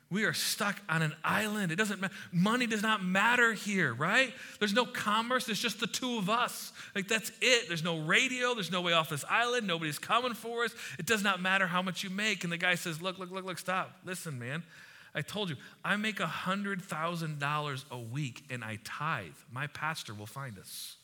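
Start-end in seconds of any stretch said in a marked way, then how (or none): 0.1-12.4 mildly exasperated, pressing each point, higher pitched; exasperated arguing. Acted. Stranded man arguing with his unbothered companion, mock exasperation. Freaked-out castaway argues with calm one. 13.0-21.0 calm and chill. Acted. Chill castaway reassuring his panicked companion, calm and confident. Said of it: "The second guy is calm as can be".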